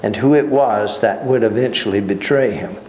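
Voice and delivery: measured reading of a Bible passage; steady formal reading voice; scripture reading. Acted. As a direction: read the passage aloud to the class. Reads scripture aloud to class.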